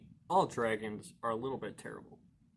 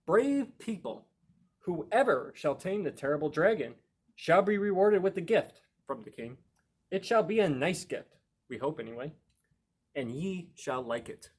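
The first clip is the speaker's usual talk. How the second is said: higher and louder herald voice; town proclamation; 4 semitones higher, 5 dB louder than usual. Acted. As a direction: cry it out like a village crier. Villagers' sign read as proclamation.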